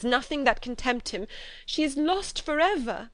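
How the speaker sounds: distressed. A narrator's reading. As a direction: pour out the dreadful news, voice climbing. Elizabeth confesses dreadful news.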